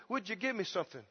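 soft, halting beggar's plea; acted hungry street beggar; pleading beggar. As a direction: beg timidly for a handout. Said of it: "he's having to plead with people".

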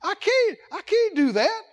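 hammed-up tearful whine; mock crying. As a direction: whimper out the refusal like a scared worker. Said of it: "what if Rob kept crying".

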